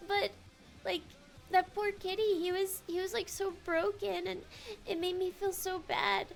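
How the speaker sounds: tearful. Real, not acted. Streamer recalling a broken kitty, tearful. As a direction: fight back tears for a poor animal. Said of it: "I'm crying because it makes me sad".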